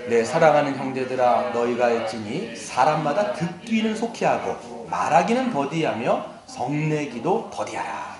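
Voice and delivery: scripture reading. Acted. Preacher leading the congregation in a verse, slow recitation. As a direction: read it out slowly for all to follow.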